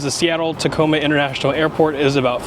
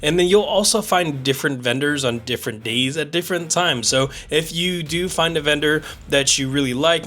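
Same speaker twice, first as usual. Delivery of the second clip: slowed-down slow-mo playback; stretched, dragging slow-mo voice; slow motion. Real, not acted. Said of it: "He's talking in slow motion".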